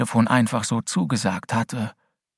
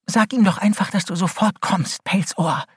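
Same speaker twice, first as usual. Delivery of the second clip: hissed; 8 semitones higher than usual. A narrator's reading. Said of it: "zischte Holly".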